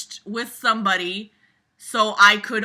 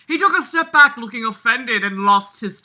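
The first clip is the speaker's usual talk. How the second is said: louder, hammed-up dramatic reading; dramatic narrator voice; 3 semitones higher, 5 dB louder than usual. Shown as a demonstration. Reading the story aloud in a hammed-up dramatic voice. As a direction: read it like a movie-trailer narrator. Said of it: "I'm not doing the dramatic voice".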